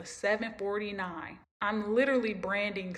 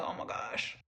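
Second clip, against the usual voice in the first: whispered dismay; 11 semitones lower, 6 dB quieter than usual. Retold or imitated. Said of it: "and I'm like".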